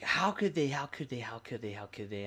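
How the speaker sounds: frustrated lament trailing off; frustrated venting. Retold or imitated. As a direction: vent it over and over, dying away. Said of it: "And I'm just frustrated".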